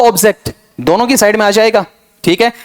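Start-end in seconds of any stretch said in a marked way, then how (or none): 0.0-0.5 "ऑब्जेक्ट" as ob-zekt, between noun and verb; middle-way pronunciation. Shown as a demonstration. Teacher offering a compromise for both, middle-way pronunciation. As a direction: open ob, then an e vowel in "ऑब्जेक्ट". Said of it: "इससे बढ़िया बीच वाला बोलो".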